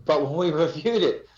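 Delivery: real laugh breaking into speech. Real, not acted. Investigator recounting the evidence review, laughing. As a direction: laugh mid-sentence, cough, then excuse yourself. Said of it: "I'm laughing".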